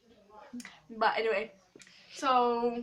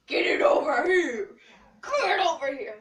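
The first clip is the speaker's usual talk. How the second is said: laughing while insisting; 4 semitones higher, 7 dB louder than usual. Real, not acted. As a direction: laugh through the order. Laughing at camera holder.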